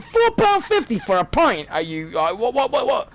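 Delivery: mock outrage at a pricey pint; scoffing disbelief, building up; incredulous at the price. Complaining about nightclub pint prices, mock outrage. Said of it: "I'm like".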